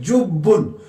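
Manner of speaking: जुब्बुन with a held, doubled b. Shown as a demonstration. Teacher showing the tashdeed on ba, जुब्बुन with doubled b. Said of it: "बा तजदीद है".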